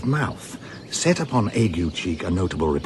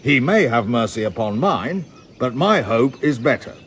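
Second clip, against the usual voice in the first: mock pompous reading; 4 semitones higher, 4 dB louder than usual. Reading Andrew's challenge aloud.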